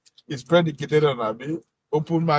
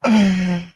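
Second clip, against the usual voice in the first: loud burst of laughter; real laughter; 4 semitones higher, 7 dB louder than usual. Real, not acted. Host cracks up picturing Obi's flight to Brazil, real laughter. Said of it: "I'm laughing because".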